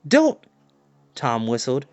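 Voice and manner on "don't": high, urgent pleading cries; pleading call. Acted. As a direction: beg him not to run. Tom calls after fleeing dog.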